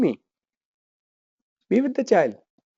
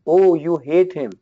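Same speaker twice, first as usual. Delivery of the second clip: acknowledging mother; 2 semitones lower, slower than usual. Shown as a demonstration. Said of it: "you have to say to the child as a mother".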